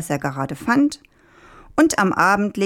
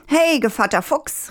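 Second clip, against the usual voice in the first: high-pitched call, no extra volume; 9 semitones higher than usual. A narrator's reading. Rooster hailing the fox who carries him, calling out. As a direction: hail someone in a storyteller's light call. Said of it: "rief der Hahn".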